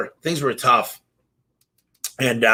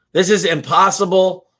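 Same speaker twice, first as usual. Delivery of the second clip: higher, louder exasperated giving up; hunter's louder despairing outcry; frustrated repeat; 6 semitones higher, 4 dB louder than usual. Retold or imitated. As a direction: throw up your hands on the repeat.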